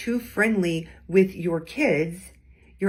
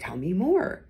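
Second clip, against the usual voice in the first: gently curious, lifting on "more". Shown as a demonstration. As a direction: ask with real interest. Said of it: "Notice that was said with curiosity".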